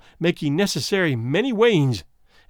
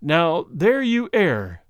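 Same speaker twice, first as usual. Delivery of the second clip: smiling rejoinder; much slower than usual. Acted. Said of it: "was the smiling rejoinder".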